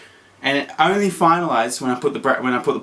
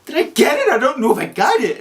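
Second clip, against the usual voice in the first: high, louder, panicky questions; panicked; 12 semitones higher, 3 dB louder than usual. Retold or imitated. Unsure she parked right, asking in a high panic. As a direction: fret aloud, voice shooting up. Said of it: "I started freaking out".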